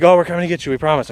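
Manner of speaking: mocking the drivers. Drivers' excuse on phone.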